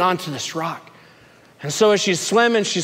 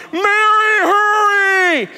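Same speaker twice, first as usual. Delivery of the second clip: high shouted call across the water; 13 semitones higher, 4 dB louder, slower than usual. Retold or imitated. People on the boat calling to Mary, high shout. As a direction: yell for her to hurry. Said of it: "they start yelling".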